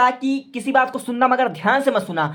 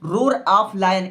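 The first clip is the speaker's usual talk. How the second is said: slow dictation; much slower than usual. Shown as a demonstration. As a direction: roar of lion stretched out slowly. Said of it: "ठीक है, the". (धीमी आवाज़ में लिखवाना)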